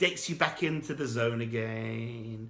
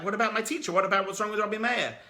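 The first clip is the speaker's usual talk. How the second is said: higher, indignant questioning; upset student; 6 semitones higher, faster than usual. Acted. Student upset about his teacher, higher indignant protest. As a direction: protest for your teacher's honour. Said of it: "like, really upset".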